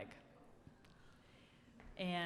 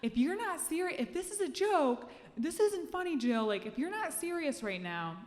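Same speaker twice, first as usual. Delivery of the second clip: high, loud frantic yell; panicked yelling; 11 semitones higher, 7 dB louder than usual. Retold or imitated. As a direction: yell at her in desperate disbelief. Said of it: "and I'm like".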